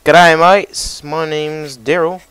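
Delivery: loud, high, hammed-up Aussie voice; a cartoonish Australian greeting, played up loud; shitty Australian accent. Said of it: "your very, very shitty Australian accent".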